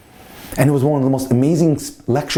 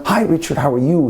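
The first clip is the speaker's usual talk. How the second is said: higher-pitched, lightly acted hello; delighted greeting; 5 semitones higher than usual. Rabbi welcomes his student at the door, delighted. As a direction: greet a favourite pupil with lifted pitch.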